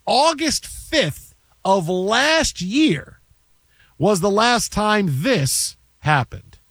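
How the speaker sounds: slow, drawn-out broadcaster setup; slow, weighty sportscaster intro; dramatic announcer build-up. Acted. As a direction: stretch it out like a big reveal.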